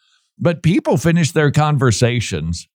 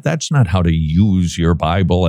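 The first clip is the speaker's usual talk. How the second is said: lower-pitched correction with emphasis on "use"; stress on "use"; 6 semitones lower than usual. Real, not acted. Host corrects listeners on Bible reading, stressing "use". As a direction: make "use" the key word. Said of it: "emphasis on the word use".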